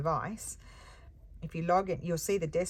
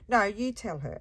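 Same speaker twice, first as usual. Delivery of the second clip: louder, higher, snappy comeback; a pushy customer throwing it back at her; curt customer retort; 5 semitones higher, 7 dB louder than usual. Retold or imitated. Seller voices the pushy customer snapping back.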